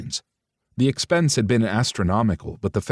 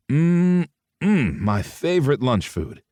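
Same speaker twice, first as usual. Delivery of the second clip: delighted; 6 semitones higher, slower than usual. A narrator's reading. Delighted at donuts.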